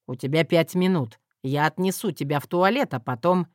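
low tender man's voice; husband voice. Acted.

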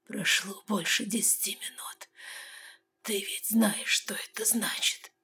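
slow, faint whisper; fading out, eyes closing; dying whisper. A narrator's reading. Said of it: "сказал он, закрывая глаза". (медленный угасающий шёпот)

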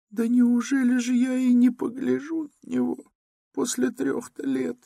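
very high weeping mother; tearful. A narrator's reading. Mother cries that she hasn't seen her son in three years, tearful and very high. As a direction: plead through tears. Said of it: "заплакала Пульхерия Александровна".

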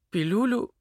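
high, rising incredulous question; surprised. Acted. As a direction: echo the word in disbelief. Varya stunned by his guess.

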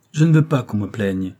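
a touch of hard, cold refusal; harshly. Acted. Rose rejecting André's pity, mildly harsh. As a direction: push the pity away sharply. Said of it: "dit-elle durement".

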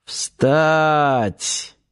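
a mock yell of an officer; mild command shout. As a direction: snap the command. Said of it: "заорал".

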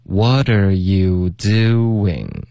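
very slow, each word stretched out; slow demonstration. Shown as a demonstration. Teacher showing two lip slides, very slow and drawn-out. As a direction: glide through "you doing" slowly, lips sliding twice. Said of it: "会连续两次这个嘴唇滑动".

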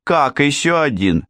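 put-on high-pitched curious child; surprised young girl. A narrator's reading. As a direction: exclaim as an intrigued little girl. Little girl reacts to news. (высокий голос удивлённой девочки)

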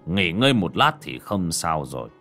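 slow, steady, reassuring elder; calm and reassuring. Acted. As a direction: settle everyone's nerves, slowly. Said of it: "nét mặt trấn định".

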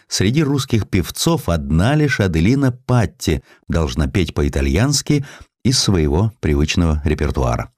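ordinary delivery, nothing marked

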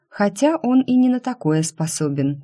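usual speaking voice

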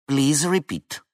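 flat, neutral radio voice, lightly voiced; a bored operator asking again; indifferent dispatcher. A narrator's reading. Dispatcher asks the pilot to repeat, indifferent tone. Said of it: "Нейтральный, даже равнодушный голос".

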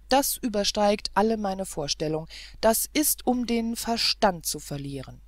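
exasperated outburst. Acted. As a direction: vent his frustration, near the end of his rope. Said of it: "stürzte der Prinz atemlos".

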